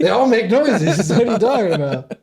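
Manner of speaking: laughing disbelief. Real, not acted. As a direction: laugh it out, incredulous. Amused at friend's ignorance.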